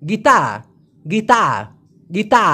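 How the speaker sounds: গীতা with dental t and no r; Malay pronunciation. Shown as a demonstration. Teacher drills Malay গিতার as গীতা. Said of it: "ওরা বলে গীতা".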